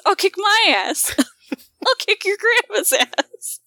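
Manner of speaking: high laughing mock threat; belligerent drunk. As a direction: laugh through a silly threat.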